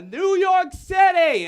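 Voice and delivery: shouted suggestion. Acted. Passenger yelling a suggestion to the improv hijackers. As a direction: yell it from the crowd like a heckler.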